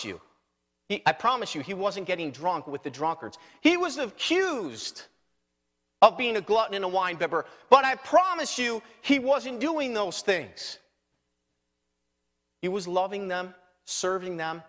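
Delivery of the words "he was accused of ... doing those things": emphatic preaching. Real, not acted.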